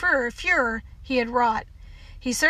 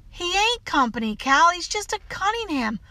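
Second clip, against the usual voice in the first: lightly voiced child, higher; protesting child; 5 semitones higher than usual. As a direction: answer back in a child's protest. Child answers back to housekeeper.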